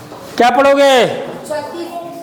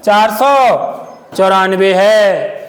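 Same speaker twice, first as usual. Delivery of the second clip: slow emphatic reading; 4 semitones lower, much slower than usual. Shown as a demonstration. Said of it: "एक ऐसा ही स्थिरांक है".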